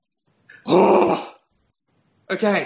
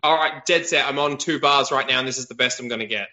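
choppy, breaking-up audio; talking over a weak mobile signal; bad phone reception; 4 semitones lower than usual. Real, not acted. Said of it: "your voice is cutting in and out".

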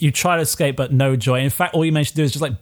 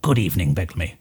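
King Lycus greeting; 9 semitones lower than usual. Acted.

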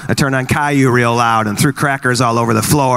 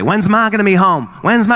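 put-on whiny kid; 6 semitones higher than usual. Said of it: "that question all day".

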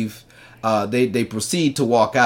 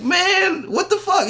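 mock whiny protest; slower than usual. Protesting, friend blocking view.

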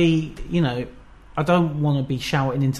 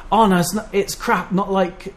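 lightly put-on Birmingham accent, a bit higher; vague Birmingham accent; 5 semitones higher, 3 dB louder than usual. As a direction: mimic a Birmingham mum, mild Birmingham accent. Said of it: "I don't know what my accent is".

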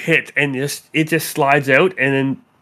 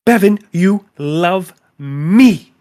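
clingy obsessed lover; 3 semitones higher, 4 dB louder, much slower than usual. Acted. GM voices obsessive girl.

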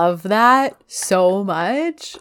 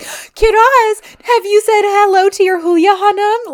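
high sing-out to a child, imitated; sudden change of tune; 11 semitones higher, 4 dB louder than usual. Mother bolting over to her child about the teacher, high and eager. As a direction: mimic a suddenly friendly mother, pitched way up. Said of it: "The way her tune changes so quickly".

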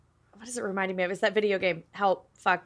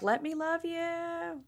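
breathy swooning plea; 7 semitones higher, 15 dB quieter, much slower than usual. Retold or imitated. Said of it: "Cole's just running towards the killer like".

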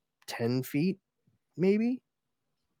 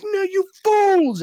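high, drawn-out theatrical yell; furious mock shout; 9 dB louder, slower than usual. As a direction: bellow it like an outraged comic-book ruler. Acted ruler rebukes his guards.

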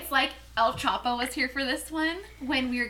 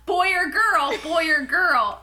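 raised, punchy heckle; retold heckling; 2 semitones higher, 4 dB louder than usual. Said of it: "I was, like, getting hella pissed".

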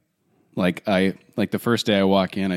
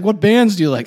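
librarian voice; 10 semitones higher, 5 dB louder than usual. Retold or imitated. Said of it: "then he's like".

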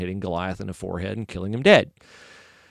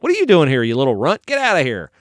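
louder, dismissive mock scolding; scolding big brother; 5 dB louder than usual. Older brothers sending David away, mock scolding. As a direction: brush off the little runt, loudly. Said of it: "his brothers are like".

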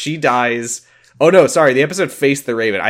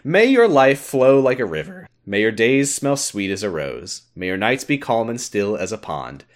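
solemn prayer reading. Shown as a demonstration. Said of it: "say the Doctor's Prayer however you want".

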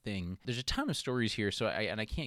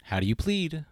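mock Zeus; 2 semitones higher, 7 dB louder than usual. Host imitates Zeus judging baby Hermes, mock-solemn louder voice. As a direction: play Zeus putting the baby on trial. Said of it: "Zeus is".

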